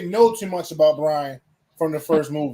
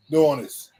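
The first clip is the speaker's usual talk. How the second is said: stifled giggles; 3 semitones lower than usual. Real, not acted. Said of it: "I'm trying not to laugh".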